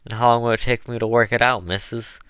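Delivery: fast, high, eager question; pleasantly astonished rush; surprise and delight. A narrator's reading. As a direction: ask it in delighted wonder, loud and quick. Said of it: "accent of surprise and delight".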